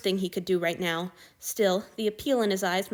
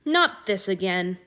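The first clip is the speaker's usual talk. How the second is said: cold; 5 dB louder, slower than usual. Acted. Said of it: "Marcus's face went cold".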